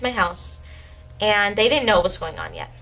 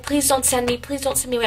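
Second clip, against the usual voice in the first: retold tearful plea; 5 semitones higher than usual. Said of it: "I was, like, crying in English class".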